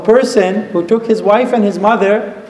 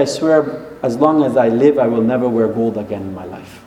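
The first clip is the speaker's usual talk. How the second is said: upset mother; 7 semitones lower than usual. Retold or imitated. Mother swearing off gold to her son, upset. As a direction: retell a hurt vow, voice dropping away. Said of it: "She was upset".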